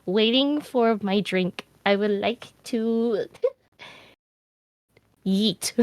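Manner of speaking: mock exasperation. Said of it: "And I was like".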